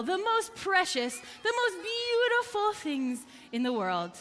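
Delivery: storyteller's boasting merchant; lightly acted bragging. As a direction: show off your wares, leaning on each superlative. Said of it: "they were all bragging about their wares".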